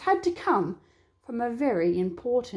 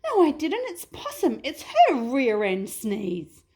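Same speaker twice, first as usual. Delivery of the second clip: higher, hurried denial; squeaky wallaby; 3 semitones higher than usual. Acted. Wallaby denies it and blames Possum, higher pitched.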